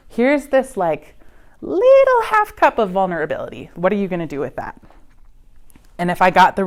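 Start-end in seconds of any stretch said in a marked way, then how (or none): 0.1-4.8 put-on teen testing the water. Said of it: "I was like".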